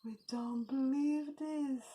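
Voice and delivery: a touch of storybook astonishment, drawn along evenly; surprised. Acted. The animals see the donkey run, surprised. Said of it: "very surprised".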